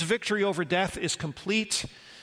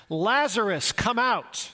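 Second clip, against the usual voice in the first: called out loud; 3 semitones higher, slower than usual. Retold or imitated. Jesus calling Lazarus out of the tomb, loud and commanding. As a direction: call the name out loud and commanding. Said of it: "and then he shouts".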